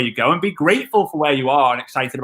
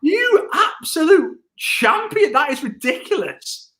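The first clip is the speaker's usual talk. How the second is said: delighted praise; 13 semitones higher, slower than usual. Real, not acted. Praising co-host's skill.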